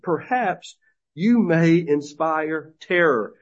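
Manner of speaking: sarcastic. Retold or imitated. Preacher reads God's taunt to Babylon, sarcastic. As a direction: taunt the proud city with fake hope. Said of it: "Notice the sarcasm".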